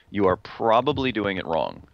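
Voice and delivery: "probably" stressed as the key word of the line. Real, not acted. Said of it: "with emphasis on probably".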